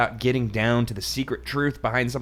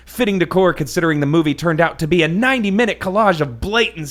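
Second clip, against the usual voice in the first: hammed-up book reading; mock dramatic reading; 2 semitones higher, 4 dB louder than usual. A narrator's reading. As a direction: read it like a big reveal. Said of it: "my dramatic reading here".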